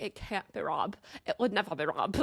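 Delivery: put-on rough go at an Irish accent; badly faked Irish lilt; attempted Irish accent. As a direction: imitate her with a shaky Irish accent. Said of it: "like, really Irish accent".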